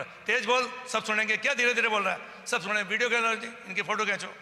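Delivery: rough bossy tone, lightly replayed; imitating rude scolding. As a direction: retell the insolent orders with some bite. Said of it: "बहुत तेज और बदतमीजी से".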